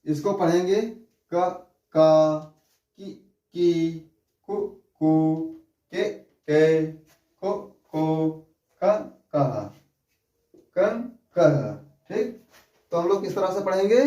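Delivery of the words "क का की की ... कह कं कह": क, का, की, कु each said very slowly and clearly; slow syllable drill. Shown as a demonstration. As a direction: chant the barakhadi one sound at a time for pupils. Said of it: "इसका शुद्ध उच्चारण कैसे करेंगे". (बारहखड़ी धीरे-धीरे साफ़ उच्चारण के साथ)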